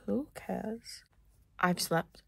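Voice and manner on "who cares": whispered shrug. Real, not acted. Vlogger brushing off her own vlog in a whisper. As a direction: breathe it out, unvoiced and dismissive. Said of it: "repeat whispered".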